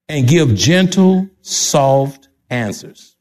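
gentle, measured. Shown as a demonstration. Preacher urging the congregation to be peacemakers, slow and gentle. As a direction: draw out each word gently. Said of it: "Tone your voice down".

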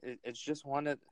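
poor attempt at British slang in a British accent; British accent, badly faked. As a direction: have a weak go at a British accent. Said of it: "I'm trying to speak like a British person".

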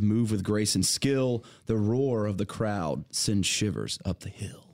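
slow, measured poem recital; poem reading. Shown as a demonstration. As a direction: read it like a grand poem. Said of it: "I'll give you the first stanza".

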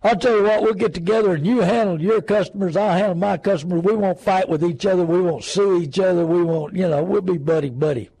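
mock back-slapping insurance buddies; hammed-up good old boy deal; buddy-buddy insurers. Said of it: "good old buddy-buddy deal".

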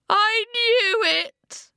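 high, slow crying wail. Acted. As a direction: wail it out in despair. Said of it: "the grey man wailed".

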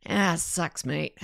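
Australian sympathy. Shown as a demonstration. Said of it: "a great Australian phrase that you say".

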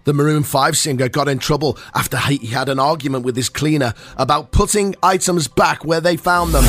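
lively, emphatic radio newsreader; punchy announcer read over a music bed; mock news bulletin. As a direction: present it like a big showbiz headline.

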